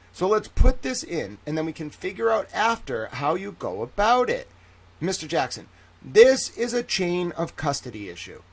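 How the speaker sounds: court transcript read aloud with a touch of theatre; mock-dramatic courtroom reading. Shown as a demonstration. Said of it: "How was that for a dramatic reading?".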